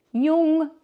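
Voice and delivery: "Jung" shouted high and loud, last attempt; Jung final try. Shown as a demonstration. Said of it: "So hard to say".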